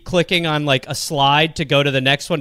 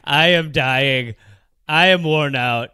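a hammed-up deathbed farewell, slow and firm; mock solemn last words; slower than usual. Shown as a demonstration. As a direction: intone it slowly, like a dying senator. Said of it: "I like that".

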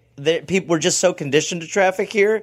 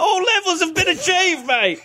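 laughing; 11 semitones higher than usual. Real, not acted. Laughing agreement.

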